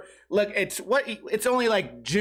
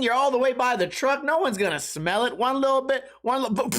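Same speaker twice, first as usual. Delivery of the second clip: higher, coaxing whisper-to-self voice; man by the truck convincing himself it's safe; sneaky self-talk; 4 semitones higher than usual. Retold or imitated. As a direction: talk yourself into a sneaky fart. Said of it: "And I go".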